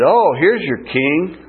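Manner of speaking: retold mild jeer, drawn out; slow, lightly mocking acclaim. Crowd jeering at Jesus in a crown of thorns, mildly mocking. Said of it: "They mocked him".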